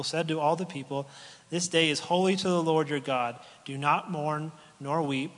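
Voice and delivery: a preacher's formal reading voice; scripture reading. Acted. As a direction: read the passage out to the congregation. Reads scripture aloud.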